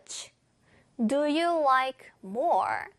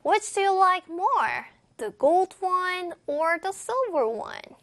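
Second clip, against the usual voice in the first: higher, slow model reading of the whole question; joined-up phrases; 5 semitones higher, much slower than usual. Shown as a demonstration. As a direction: run "Which do you like more" straight into "The gold one". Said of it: "붙여서 도전합니다".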